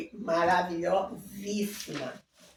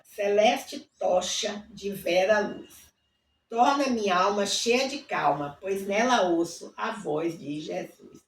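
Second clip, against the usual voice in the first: measured, devout recital of hymn verses; reciting a church hymn text; hymn reading. Acted. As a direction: read the hymn lines reverently. Reads hymn lyrics aloud.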